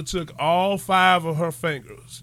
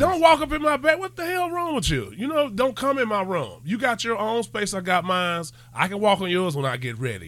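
fed-up parent laying down the rules; mock parent rant; 3 semitones higher than usual. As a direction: rant at the kid like an outraged parent. Scolding kid for entering room.

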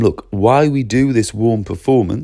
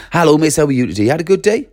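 a touch higher, chirpy teacher hello; scripted cheerful greeting; 5 semitones higher, 3 dB louder, faster than usual. Retold or imitated. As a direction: perform the friendly script lightly. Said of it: "It's just an act".

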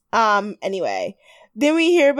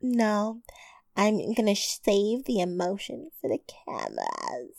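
softer, a touch dramatic; mock restraint; 2 semitones lower, 9 dB quieter than usual. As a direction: hold back the tears, mockingly. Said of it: "Christina's like".

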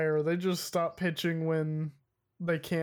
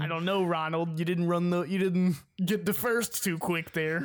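bad Rick impression. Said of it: "Kinda sounds like you're trying to do a bad Rick impression".

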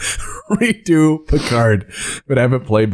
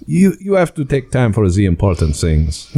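lazy French Picard; 4 semitones lower than usual. Retold or imitated.

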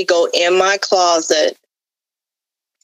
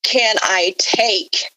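retold cry to God; 3 semitones higher, much slower than usual. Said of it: "I just cried out to God real loud".

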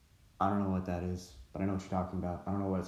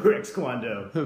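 slow, louder dojo name call; sharp martial arts commands; 4 dB louder, slower than usual. Retold or imitated. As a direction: announce the dojo like a proud sensei. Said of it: "This is just like Napoleon Dynamite".

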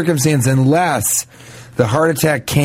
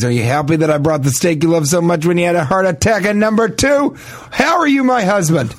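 mock indignant questioning; 6 semitones higher than usual. Confronting the revived husband.

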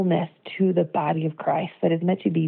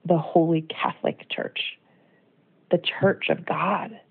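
whispered, slow and reverent; hushed awe; slower than usual. Acted. Preacher asking the church how to live, hushed whisper. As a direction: let it drop to a reverent whisper. Reflective sermon climax.

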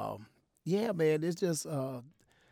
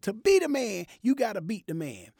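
higher, louder wrestling line; wrestler promo; 7 semitones higher, 4 dB louder than usual. Retold or imitated. Repeating Ric Flair's line to his wife, higher and louder. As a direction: announce it like a wrestler. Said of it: "I said".

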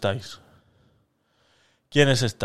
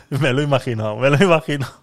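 laughing; 4 dB louder, much faster than usual. Real, not acted. Laughs at own joke.

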